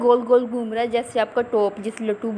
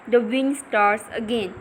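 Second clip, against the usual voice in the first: slow reading aloud; much slower than usual. Shown as a demonstration. Teacher reads text slowly.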